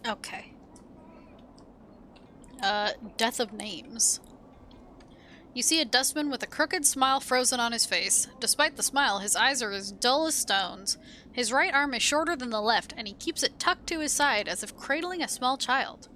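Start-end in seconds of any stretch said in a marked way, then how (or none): 5.5-16.1 even storytelling read of the scene; game text narration. A narrator's reading.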